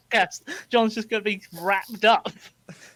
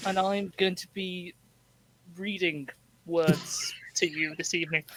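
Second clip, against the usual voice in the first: halting read. Real, not acted. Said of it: "That was going so well until you went".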